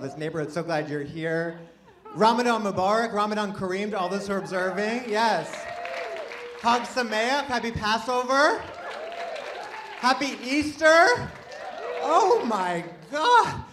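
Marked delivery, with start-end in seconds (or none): 2.1-13.6 high, loud festive shout-out; excited holiday cheer. Real, not acted. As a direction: whoop up the crowd, voice climbing. Shouting holiday greetings to the crowd.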